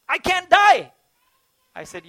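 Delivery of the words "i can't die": high, slow laughing reply; retelling a dying friend's laughing reassurance. Retold or imitated. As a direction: laugh it off joyfully, pitched up. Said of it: "Why are you sad?".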